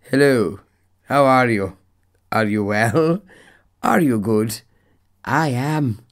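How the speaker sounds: mock-royal elocution voice; Queen Elizabeth. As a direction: greet politely like a put-on queen, carefully spaced phrases. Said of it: "I'd turn into, uh, Queen Elizabeth".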